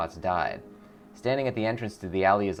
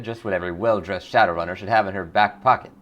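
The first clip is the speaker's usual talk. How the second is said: hawking wares, a touch louder; louder vendor pitch; 6 dB louder than usual. Acted. Dealer calling to a runner, louder sales pitch. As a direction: call out to a passing customer.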